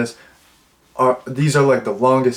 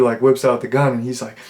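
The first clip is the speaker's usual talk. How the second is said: normal talking voice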